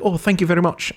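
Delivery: mock a clumsy Irish accent; bad Irish accent. Old man thanking uncle, in bad Irish accent. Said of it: "an Irish accent that was terrible".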